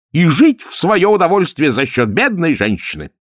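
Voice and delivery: mock lament. A narrator's reading. Ametistov lamenting lost knights to the count, theatrical. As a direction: declaim it like a hammed-up tragedian.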